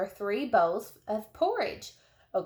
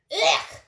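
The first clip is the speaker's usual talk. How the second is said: disgusted ugh; 7 semitones higher, 5 dB louder than usual. A narrator's reading. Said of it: "Daisy Locks cried".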